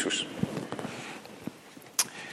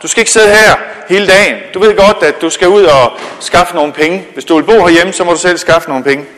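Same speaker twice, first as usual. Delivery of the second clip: nagging mother; 3 semitones higher, 5 dB louder than usual. Acted. Mother nagging son to get up.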